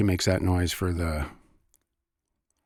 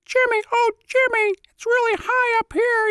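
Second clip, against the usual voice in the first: tiny squeaky piccolo voice, far higher; piccolo character voice; 4 dB louder than usual. Retold or imitated. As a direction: squeak like a little flute character. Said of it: "H R Pufnstuf?".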